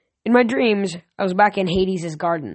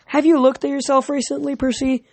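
Chiron amused; 7 semitones higher than usual. A narrator's reading. Chiron teasing Percy kindly.

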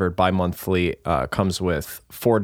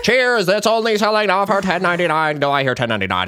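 mock ad pitch; 9 semitones higher, 3 dB louder than usual. Mock ad pitch after reading.

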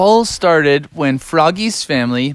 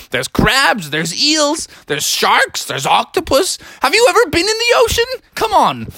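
higher, hearty insistence; pushy dad voice; 4 semitones higher than usual. Acted. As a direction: sweep their objections aside with big cheer. Father Beaver dismisses beach, pushes bikes.

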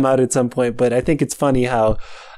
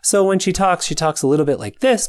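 raised pitch, same American accent; slightly higher character voice; 5 semitones higher than usual. Shown as a demonstration. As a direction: lift your own voice a little higher. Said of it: "just higher".

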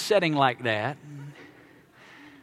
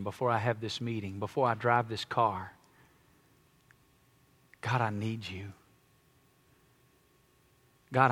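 quiet prayer; 9 semitones lower, 12 dB quieter than usual. Shown as a demonstration. Pastor showing the congregation how to pray through the day, soft and humble. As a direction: pray it under your breath, humbly.

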